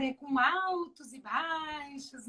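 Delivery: ALTOS and BAIXOS each drawn out slowly; slow, melodic demonstration of "altos e baixos"; highs and lows. Shown as a demonstration. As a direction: stretch "altos" and "baixos" in a musical swing. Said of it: "essa entonação".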